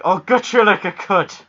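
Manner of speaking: loud, high mock Nova Scotian threat; hammed-up Nova Scotia film accent; thick Nova Scotia accent. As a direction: imitate a thick Maritime Canadian accent. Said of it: "this thick accent going on".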